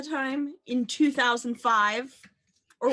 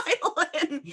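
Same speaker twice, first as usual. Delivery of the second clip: laughing; 7 semitones higher than usual. Pretend. Echoing the radio-host bit with laughter.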